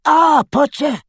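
put-on high, loud elderly witch greeting; crisp, high-pitched grandmother; crisp old lady. A narrator's reading. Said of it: "she said crisply".

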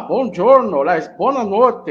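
loud, mock Italian greeting; playful Italian accent. Guest greeting the podcast host, playful Italian accent. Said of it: "sotaque italiano".

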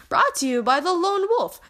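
whisper. Acted. Mock sponsor tag whispered.

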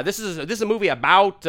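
American-accented voice-over line. Shown as a demonstration. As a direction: demonstrate an American accent on "about". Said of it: "when I do American stuff".

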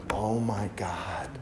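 soft shocked whisper to himself; stunned whisper. Retold or imitated. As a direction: whisper it as the story sinks in. Stunned by caddy's sad story.

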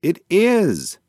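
high, loud cry; exasperated yell. A narrator's reading. Mouse corrects her guessing pigeon friend, yelling it. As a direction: yell it out, pitch jumping up. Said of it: "yelled Dash".

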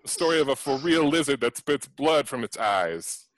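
lightly voiced street gangster; a hint of gangster swagger. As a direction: read it like a gangster. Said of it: "your accent is gangster".

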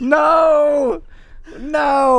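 high, loud no; loud dismayed shout. Real, not acted. Dreading a hard word.

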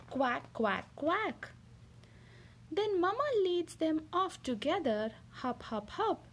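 lively picture-book reading voice; reading to children. Acted. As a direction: read it like a bedtime story for a little one. Mother reads picture book aloud.

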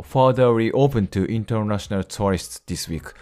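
slow, measured English reading; English read-aloud. Real, not acted. Teacher reading an English news sentence to learners, measured read-aloud. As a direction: read the news line out slowly, word by word.

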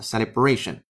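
celebration with the stress on bra, ce-le-BRA-tion; stress on bration. Shown as a demonstration. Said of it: "注意重音串到了bration". (重音落在bration)

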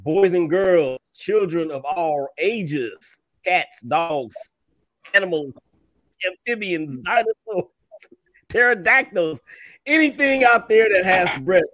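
ringmaster. Acted. Grand show opening announcement.

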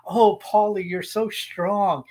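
slow, breathy robot seduction; sexy woman voice. Retold or imitated. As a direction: purr it like a flirty robot. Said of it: "a sexy woman voice".

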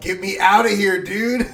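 cowering plea. Retold or imitated. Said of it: "that's Danny's frightened voice".

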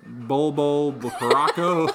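slow laughing stumble; laughing at the name. Real, not acted. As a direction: laugh through a name you can't say. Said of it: "I can't say any of these names".

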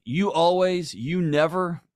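a heated spouse throwing out sweeping blame; mock accusation. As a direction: hurl the generalization at your partner. Acted generalizing accusations.

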